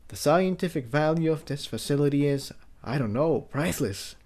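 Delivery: soft but rising with wonder; a hushed thrill at the discovery; Jigsaw, excited. Acted. Jigsaw telling Tiptoe the find is priceless, hushed excitement.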